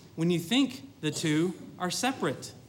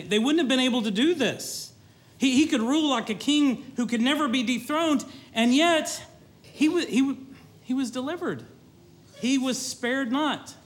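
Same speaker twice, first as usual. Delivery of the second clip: rising fervour; 5 semitones higher than usual. Real, not acted. Preacher driving home to the congregation, rising fervour. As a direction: preach it up to a peak.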